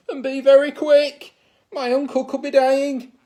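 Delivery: loud, urgent princess orders; urgent command. Acted. Princess urging friends to fetch cure fast, loudly. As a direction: hurry them, loud and anxious. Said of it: "She told the others".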